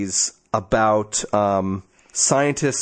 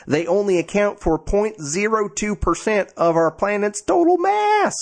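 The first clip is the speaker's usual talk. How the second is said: hammed-up Southern accent, climbing higher; 5 semitones higher than usual. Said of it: "should I do my Southern accent?".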